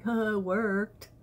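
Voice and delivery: slow, self-satisfied imitation; smug smile. Wife imitating husband pleased he pushed her button, smug. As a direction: draw it out with an audible smile. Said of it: "he kinda smiled".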